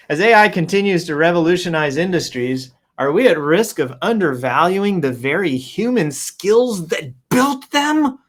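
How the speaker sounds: grand announcement, slowing at the end; proclaiming read. Retold or imitated. Reading Dag's post aloud, proclaiming it grandly. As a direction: proclaim it like a headline. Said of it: "proclaims Dag".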